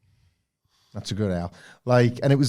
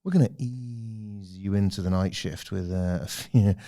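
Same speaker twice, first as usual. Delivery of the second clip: late night DJ; 3 semitones lower than usual. Retold or imitated. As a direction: lull them like a night DJ. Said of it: "there's, uh".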